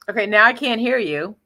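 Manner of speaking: ordinary talk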